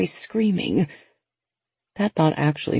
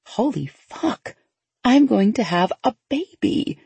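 excited; 6 semitones higher, slower than usual. Acted. Sudden joy, happy dance.

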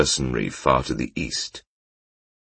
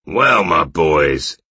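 slow, loud jeering call; mock him to his friends; 3 semitones higher, 5 dB louder, much slower than usual. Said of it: "jeered the first man".

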